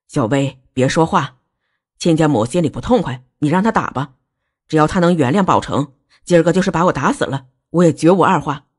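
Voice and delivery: low-pitched, submissive pleading; humble placating father. Acted. Father offering to be beaten for his son, humbly placating. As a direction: hush the daughter and appease the in-law.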